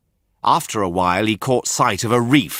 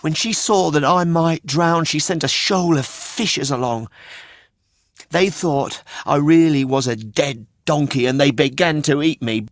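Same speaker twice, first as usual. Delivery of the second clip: put-on higher, quick puppet boy telling his tale; Pinocchio voice; 6 semitones higher, faster than usual. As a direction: chatter it like an eager puppet. Pinocchio tells his story.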